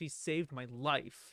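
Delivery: mock-serious, youthful delivery. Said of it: "it sounds when he says that".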